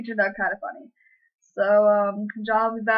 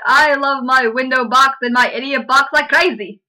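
louder, chirpy fake British small talk; mock British accent; 2 semitones higher, 6 dB louder than usual. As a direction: lay the posh Brit on thick. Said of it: "How's that British?".

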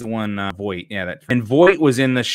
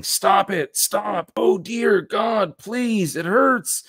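pained begging; 11 semitones higher, slower than usual. Acted. Victim begging under torture.

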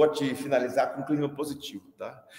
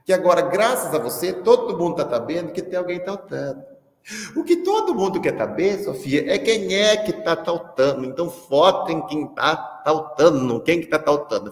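louder, higher, fed-up teacher; exasperated scolding; 4 semitones higher, 4 dB louder than usual. Retold or imitated. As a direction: snap at the kid in frustration. (professor irritado com a Sofia, mais alto e mais agudo)

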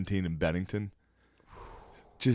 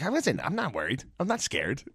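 mock nervous denial; 8 semitones higher than usual. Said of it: "And he was like".

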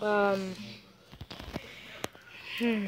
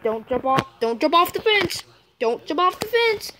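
a big sister's pleading warning, rising higher and higher; 4 semitones higher than usual. Retold or imitated. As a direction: warn the little brother, climbing in pitch. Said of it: "I'm like".

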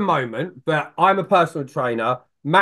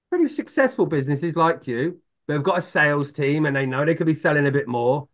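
sales pitch demo; 3 semitones lower than usual. Shown as a demonstration. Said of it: "I literally turn around and go".

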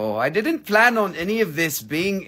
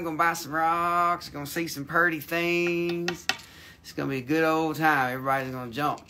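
a country bumpkin voice, lightly put on; hammed-up hillbilly drawl. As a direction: play a rowdy rural hick hosting the show. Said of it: "talk funny".

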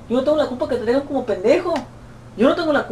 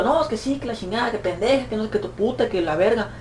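muttered cursing; 7 dB quieter than usual. Retold or imitated. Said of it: "me miraba yo".

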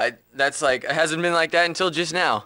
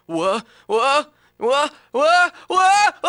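each one higher and louder; rapid-fire questions building in pitch; escalating "What?"; 9 semitones higher, 3 dB louder, much slower than usual. Acted. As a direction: climb from normal voice to a high yell. Escalating repeated takes of one word.

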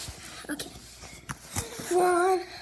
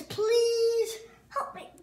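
high, strained plea for help; whimpering through the pain; 5 semitones higher, 4 dB quieter, much slower than usual. Real, not acted. Pained plea during workout.

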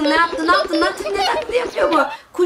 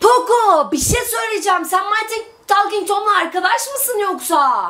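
dramatic questioning; 5 semitones higher than usual. Real, not acted. Questions game character dramatically.

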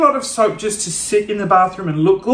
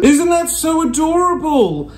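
higher cooing delight; 8 semitones higher than usual. Real, not acted. Vlogger admiring tiny pills, higher cooing. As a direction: coo over something cute.

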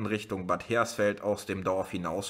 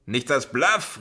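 louder scornful shout; calling out; 4 semitones higher, 6 dB louder than usual. A narrator's reading. Man in the crowd calling out at the police. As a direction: shout it back in disbelief. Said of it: "rief ein Mann".

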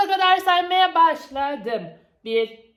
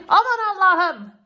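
louder, hammed-up seeker; mock searching; 4 semitones higher, 3 dB louder than usual. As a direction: pretend you can't find them. Seeker teasing the hidden one.

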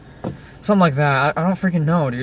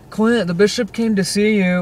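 higher, drawn-out call; retold calling out; 7 semitones higher, 4 dB louder than usual. Brian telling Clint about the bishop's visit, calling out. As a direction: imitate someone calling out the news, slowly.

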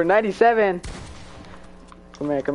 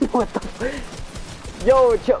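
laughing startle; 9 semitones higher, much slower than usual. Real, not acted. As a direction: caught off guard and laughing it out. Startled by opponent spotting him.

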